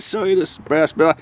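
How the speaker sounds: talking around a flashlight; muffled, mouth held open. Real, not acted. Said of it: "hold the flashlight in my mouth".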